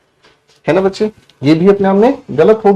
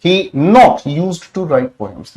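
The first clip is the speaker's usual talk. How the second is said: very slow, word by word; slow dictation; much slower than usual. Shown as a demonstration. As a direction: read the sentence out slowly for the class. Reading the wrong sentence aloud.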